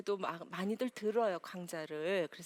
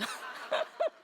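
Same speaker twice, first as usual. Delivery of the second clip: a sudden high shriek of laughter; high burst of laughter. Real, not acted. Lecturer cracking up at her own story, high laugh.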